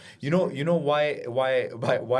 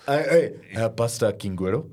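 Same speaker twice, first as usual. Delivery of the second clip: put-on Ugandan accent; 2 semitones lower than usual. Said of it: "that's a good accent".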